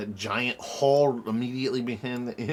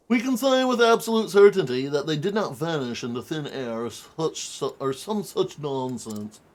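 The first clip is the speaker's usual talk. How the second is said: pompous detective voice. Acted. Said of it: "that pompous voice".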